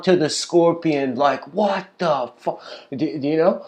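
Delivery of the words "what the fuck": slow, raised mock-stunned reaction; retold disbelief. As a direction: draw it out as a stung frog's disbelief. Frog turns round after sting.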